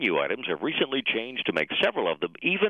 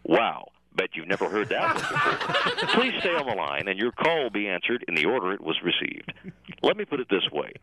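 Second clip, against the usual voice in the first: phone menu voice; 3 semitones higher than usual. Acted. Parody phone menu recording.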